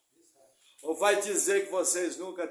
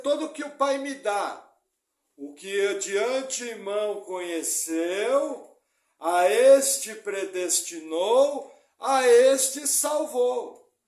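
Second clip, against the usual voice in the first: louder, dragging each phrase very slowly; emphatic preaching; 3 semitones higher, 8 dB louder, much slower than usual. Acted. Pastor drives home the verse, loud and very slow. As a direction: stretch the words out for weight.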